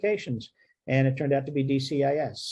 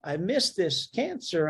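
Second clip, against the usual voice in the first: higher, slow dismayed gasp of words; doctor recalling his missed cancer, slow, higher and shocked; shocked realization; 5 semitones higher, slower than usual. Retold or imitated. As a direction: replay the moment you spot your own miss. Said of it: "And I'm like".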